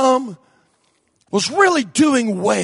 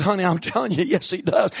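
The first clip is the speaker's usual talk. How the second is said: softer, low and steady; gentle, calm reply; quiet firm; 6 semitones lower, 6 dB quieter than usual. Retold or imitated. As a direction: break it to her gently.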